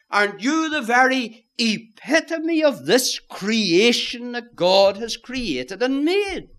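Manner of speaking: lightly voiced persuasive tempter; devil flattering Eve. Devil flattering Eve that the ban excludes her, lightly acted persuasion. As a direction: coax with doubt, leaning on each "you". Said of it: "the devil comes along to our first parents".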